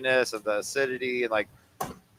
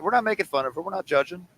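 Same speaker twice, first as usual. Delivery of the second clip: high mock innocence; 7 semitones higher than usual. Mock disclaimer before judging.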